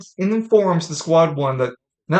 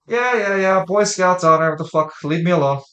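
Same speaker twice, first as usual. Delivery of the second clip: annoyed; 4 semitones higher, 5 dB louder than usual. Acted. Annoyed character brushing off Squad One.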